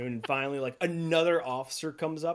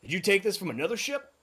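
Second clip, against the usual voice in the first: lightly higher, suspicious cook; a hint of the cook; 7 semitones higher, 4 dB louder than usual. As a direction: cook squinting at the wood. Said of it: "he goes".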